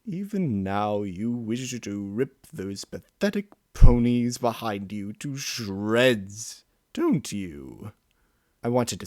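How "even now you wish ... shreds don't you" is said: a hint of the mocking inner monster; lightly voiced taunting beast. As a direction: tease him with a sneer.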